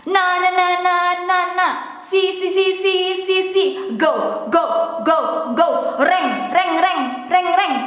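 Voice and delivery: each syllable of "Na si go reng" repeated several times; repeated syllable drill. Shown as a demonstration. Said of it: "Syllable by syllable".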